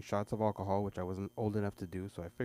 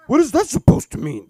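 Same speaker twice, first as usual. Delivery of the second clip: mock whiny kid; 20 dB louder than usual. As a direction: whine it at dad. Son voice.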